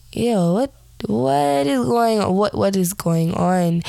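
groggy alarm, half out of sleep; startled confusion. Retold or imitated. Waking in the back seat to her sister's growl, startled and confused.

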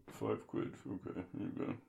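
very low, soft, distant voice; off-mic reply. Acted. Sir paying the visitor five quid, low and distant. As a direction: drop right down, away from the mic.

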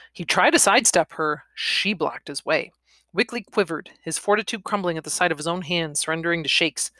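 ordinary delivery, nothing marked

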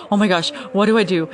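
loud, quick, flustered retelling; reenacted fluster; mild panic. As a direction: blurt it out as if flustered. Baby crying during live video.

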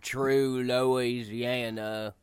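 slow, easy Louisiana drawl. Shown as a demonstration. Explaining the accent, speaks in a slow Louisiana drawl. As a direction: let the Louisiana words stretch out lazily. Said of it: "talk with a bit of a slow drawl".

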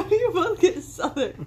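teasing while cracking up; laughing. Real, not acted. Sibling laughing at the parents' fake Southern accents.

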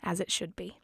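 soft, understated sigh of acceptance; lightly acted, hushed resignation; sighing Mary Poppins. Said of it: "Mary Poppins just sighs and says".

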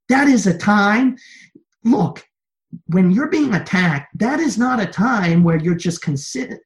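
loud, high, driving sermon voice; fiery preaching. Acted. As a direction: preach it hard to the church, rising. Preacher rises to full force.

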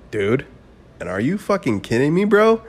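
telling listeners about the party night, building to a yell; excited disbelief. Real, not acted. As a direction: whip the crowd into it. Hyped about going to party.

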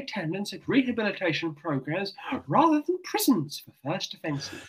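put-on RP accent. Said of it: "I'm in best R P voice I can".

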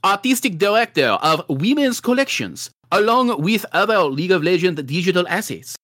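put-on hammy French accent that keeps turning Russian; overplayed mock French accent, laughing through; bad French accent. Bad French accent, reading the trophy case announcement. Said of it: "don't know what accent that is".

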